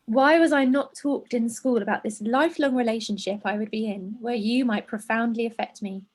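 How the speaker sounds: measured, understated reading voice; letter read aloud. A narrator's reading. Presenter reading a letter to hormones, measured. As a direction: read it evenly, as a written letter.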